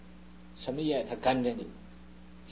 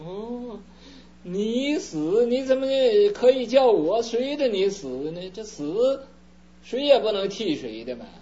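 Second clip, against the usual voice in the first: higher, louder wife balking in disbelief; mock outraged wife; indignant wife; 6 semitones higher, 4 dB louder than usual. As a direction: recoil at the idea, voice jumping up. Beautiful wife refuses husband's plea.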